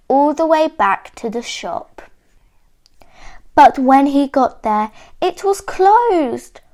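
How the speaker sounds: clear, expressive picture-book reading; measured storybook telling with lifted key words; story narration for children. A narrator's reading. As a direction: read it like a story for small listeners.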